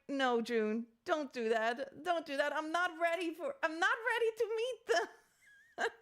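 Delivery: mock-panicked plea climbing high at the end; emotional panic, retold. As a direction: plead with a friend, rising into a squeal. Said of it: "I was so emotional at the moment".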